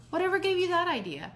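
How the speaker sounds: high incredulous question; baffled disbelief. Acted. Dad startled by accusation.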